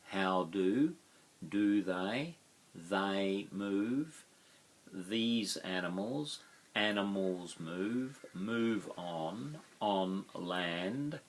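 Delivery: slow overlapping word pairs with a lift on each; chunked phrase by phrase. Shown as a demonstration. Teacher to class, chunking the sentence pair by pair, slowly. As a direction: model the words in small linked chunks for learners. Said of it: "teacher chunking phrase by phrase".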